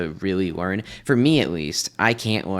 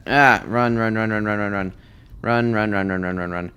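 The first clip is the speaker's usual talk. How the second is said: being chased; 4 dB louder than usual. Real, not acted. Fleeing mobs in the bastion.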